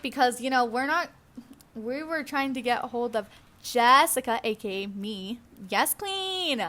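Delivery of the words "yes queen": high, playful exclamation; playful sass. Pretend. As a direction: draw it out high and sassy. Sassy exclamation mid-story.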